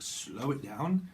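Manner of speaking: "Slow it down" drawn out at half speed; slowed right down. Shown as a demonstration. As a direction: stretch out "Slow it down" unhurriedly. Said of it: "you can slow it down, apparently".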